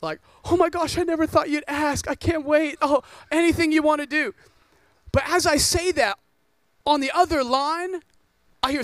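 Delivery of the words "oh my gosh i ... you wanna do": mock gushing girl. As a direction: gush like she's been waiting for the call. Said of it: "And I'm expecting".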